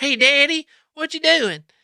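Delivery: put-on shrill, very high, loud six-year-old kid voice. Retelling an old cassette recording of talking to dad: imitating own childhood way of speaking. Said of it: "I don't remember speaking like that".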